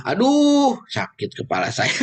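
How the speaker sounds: sudden high yelp of pain; mock ouch. Teacher yelps at a headache from the tonal-language talk. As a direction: cry out aduh in mock pain.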